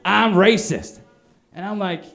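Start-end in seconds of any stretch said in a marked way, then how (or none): 0.0-1.0 louder, higher demanding tone; mock indignant guy. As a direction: press the question like a cornered angry guy. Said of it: "this guy was like".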